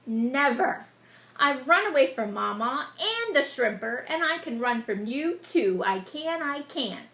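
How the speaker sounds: put-on taunting sing-song child voice; cheeky gingerbread boy. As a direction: tease them, run away laughing.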